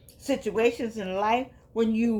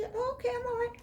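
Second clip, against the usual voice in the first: high, grudging mock answer; mock cold reply. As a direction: imitate a curt, unfriendly reply.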